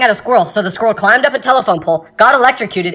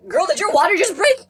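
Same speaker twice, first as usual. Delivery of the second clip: much higher, alarmed; panicked question; 11 semitones higher than usual. Retold or imitated. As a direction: blurt it out in a panic. Students panic at teacher.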